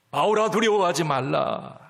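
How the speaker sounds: 바울아 called out with force, 두려워하지 말라 firm. Acted. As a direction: proclaim 바울아 boldly as God speaking. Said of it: "하나님 말씀하세요".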